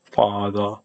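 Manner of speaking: father with its first vowel pushed towards "aw"; tentative British attempt at father, rounded "aw" vowel; British-style "aw" vowel. Shown as a demonstration. Retrying British father after practising aw, rounded vowel. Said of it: "pronounce it a bit closer to aw".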